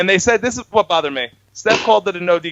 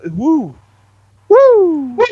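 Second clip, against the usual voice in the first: mock cheer; 11 semitones higher, 5 dB louder, much slower than usual. Excited cheering.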